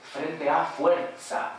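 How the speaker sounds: fuerza slow, with a voiceless z; contrast demo. Shown as a demonstration. Lecturer contrasts fuerza for the students, slowly. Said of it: "fíjense la diferencia de sonoridad".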